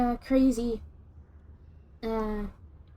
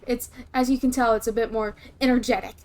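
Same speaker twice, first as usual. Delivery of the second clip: livelier, quicker natural voice; real energetic voice. Shown as a demonstration. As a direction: drop the act and talk with your own energy. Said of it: "my actual voice sounds like this".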